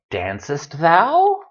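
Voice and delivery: mock archaic. Shown as a demonstration. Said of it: "not a question any of you would ask".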